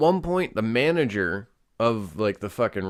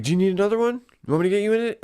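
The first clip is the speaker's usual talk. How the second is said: higher-pitched mock waitress offer; imitated waitress; 9 semitones higher, 4 dB louder, much faster than usual. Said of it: "the waitress is like".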